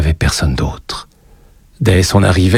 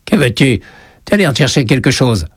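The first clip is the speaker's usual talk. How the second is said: higher, creaky witch voice; grating storybook witch; old witch; 5 semitones higher than usual. A narrator's reading. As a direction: question the child like a forbidding crone. Narrator voices the kiosk witch.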